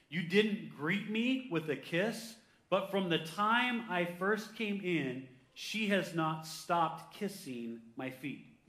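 slow, measured preacher's reading; scripture reading. Acted. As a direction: draw each phrase out deliberately. Reads scripture aloud.

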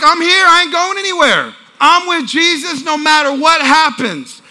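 lightly acted bold defiance; defiant declaration. Mary refusing to leave Jesus, defiant declaration.

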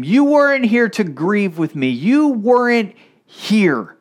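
angry grief. Pretend. Grieving sister reproaching Jesus for not coming, angry and slow. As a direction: throw the blame at him, wounded. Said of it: "I think Mary and Martha were angry".

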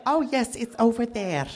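high-pitched mock friend's voice; friend finally understanding. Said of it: "And she was like".

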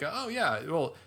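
high, loud mock retort; hammed-up indignant loudness, words drawn out at first. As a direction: crank up the volume as if arguing. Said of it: "but I raise the volume".

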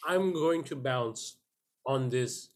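slow, lightly voiced woman; a hint of a coy woman; woman's voice. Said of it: "she says".

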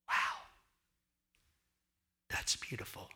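whispered wonder, breath only; awed whisper. Pretend. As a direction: breathe it out in quiet amazement. Imagined onlookers' awe.

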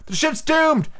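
very high-pitched wailing cry; doom cry. A narrator's reading. Pirates taking up the cry, doomed alarm. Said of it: "took up the cry".

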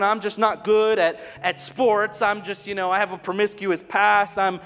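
loud, high preaching voice; a booming sermon build; full-force preaching. Acted. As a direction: proclaim it to the whole room.

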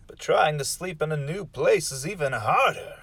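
story intro narration. Acted. Host sets up the story, softening into an ominous hush. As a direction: lead into the tale, ending hushed.

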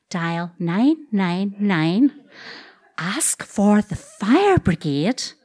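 very slow, deliberate instruction; very slow orders. Retold or imitated. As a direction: spell each word out slowly. Brother repeats instruction very slowly.

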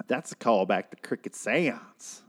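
slow, put-on imitation of that guy; impression of the actor. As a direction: drag it out in his voice. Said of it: "That was a great impression of that guy".

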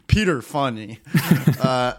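laughing at her own joke; corny dad laugh. Real, not acted. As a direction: chuckle through the words. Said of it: "I'm laughing at my own joke".

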